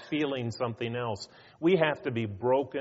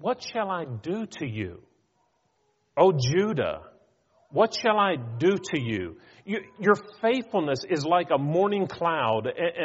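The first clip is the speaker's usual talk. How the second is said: God pleading; 3 semitones higher, 4 dB louder than usual. Retold or imitated. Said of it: "So when he says".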